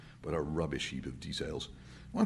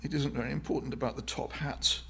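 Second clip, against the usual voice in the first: patient; 9 semitones higher than usual. Acted. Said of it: "said Winston patiently".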